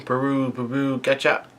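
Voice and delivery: soft mock ringtone in syllables; imitated phone ringing. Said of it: "the Den Den Mushu starts ringing".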